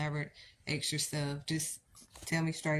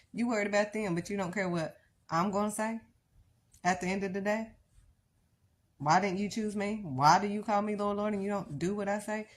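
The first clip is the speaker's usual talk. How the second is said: raised, earnest divine reproach; God pleading; 5 semitones higher, 3 dB louder than usual. Acted. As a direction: ask it as a wounded Lord. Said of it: "That's what God is saying".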